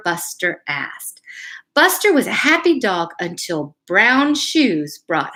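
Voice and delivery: put-on reading a picture book aloud to kids; gentle storyteller read; story reading.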